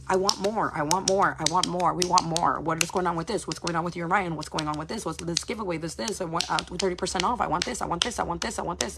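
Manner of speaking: insistent, repetitive nagging, one demand after another; mock demanding. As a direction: imitate followers piling up demands. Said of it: "they want, want, want, want".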